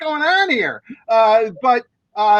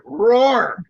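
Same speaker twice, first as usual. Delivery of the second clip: deadpan spoken "roar," no roaring; mock their weak roars by merely saying it; just saying the word. Shown as a demonstration. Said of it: "You might as well just say the word".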